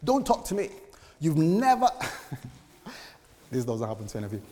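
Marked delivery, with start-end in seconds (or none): 0.0-1.9 upset wife. Retold or imitated. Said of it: "And she says".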